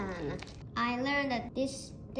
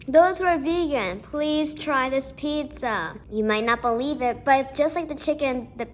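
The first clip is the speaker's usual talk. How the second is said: louder, eager sales pitch; loud excited appeal; 5 dB louder than usual. Real, not acted. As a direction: call out to the vegans, convinced. Loud closing appeal to vegans.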